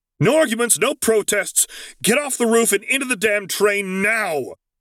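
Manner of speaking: very high, snarled, frantic shouting. Narrator reads Luke cutting Zev off with a frantic snarling yell. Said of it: "cut him off with a snarl".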